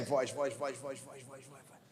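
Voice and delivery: fading to a whisper; repeated word fading to nothing; fading voices. Shown as a demonstration. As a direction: let the voices die away into a breath. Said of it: "ouvir as vozes".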